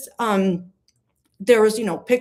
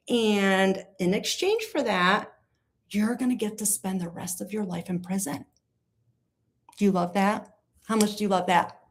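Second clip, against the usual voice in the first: mock coaxing. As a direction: coax him like a child, sarcastically. Mock coaxing client into plea.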